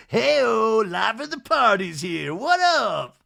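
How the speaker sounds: put-on high, loud party-boy holler; Shep. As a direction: imitate someone bursting in as life of the party. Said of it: "And then Shep comes in".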